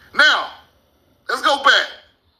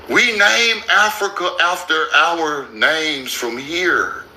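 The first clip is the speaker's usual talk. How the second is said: spelling it out slowly for the people in the back; slowed-down emphatic explanation; slow and deliberate; 6 semitones lower, slower than usual. Shown as a demonstration. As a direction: lay each word down, slow and low. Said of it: "say this shit slow".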